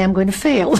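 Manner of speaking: laughing mock dread. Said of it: "clench my hands and say".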